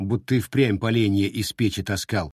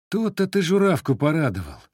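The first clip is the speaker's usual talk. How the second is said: wry wince; 7 semitones higher than usual. Acted. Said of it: "поморщился китежанин".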